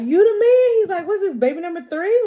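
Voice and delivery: high, loud bro hype; hype cheer. Retold or imitated. Nick hyping Barney about baby three, high and loud. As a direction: pump him up like a buddy.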